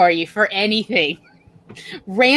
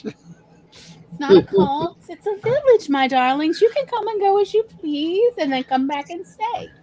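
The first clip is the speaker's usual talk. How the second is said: mock cult leader; 6 semitones higher than usual.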